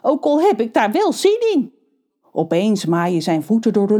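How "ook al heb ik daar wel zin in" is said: panting while running; out of breath. A narrator's reading. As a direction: gasp it out of breath. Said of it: "hijgt hij".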